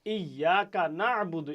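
ইয়াকা না'বুদু slow, the আইন pressed in the throat; slow recitation with pressed ain. Shown as a demonstration. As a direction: recite slowly, squeeze the ain. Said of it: "আবার দেখেন সেই আইন আসছে".

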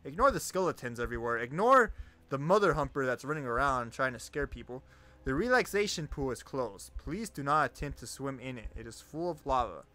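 PA announcement. Acted. Reads in-game announcements.

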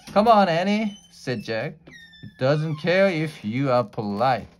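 loud and high, fed up; exasperated. Acted. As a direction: scoff at her politeness. Jack exasperated with Annie.

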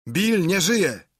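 high, loud, drawn-out cry; shouted alarm, stretched out; shriek. A narrator's reading. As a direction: yell the news out slowly and high. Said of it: "głos jakiś wrzasnął".

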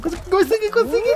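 high, rising squeal of victory; triumphant squeal. Real, not acted. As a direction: squeal it as you make it. Making it through, triumphant.

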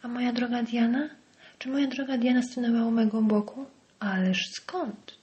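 mock his wife's devotion with contempt; mocking parody. Henry mocking his dear Diana, in sneering parody. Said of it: "w wynaturzonej parodii".

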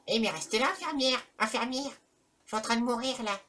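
high-pitched plea for help; mock panicked calling. Player calling the nurse as he is dying, mock panic. Calls nurse, pretending to die.

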